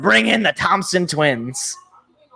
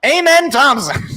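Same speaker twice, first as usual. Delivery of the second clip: mock draft announcer; 4 semitones higher than usual. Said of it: "We know what you gotta say".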